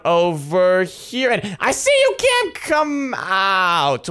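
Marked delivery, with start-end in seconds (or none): 1.6-4.1 high singsong gotcha call. Pretend. Seeker thinks he has found Cam, high calling. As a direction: pitch the name right up to flush them out.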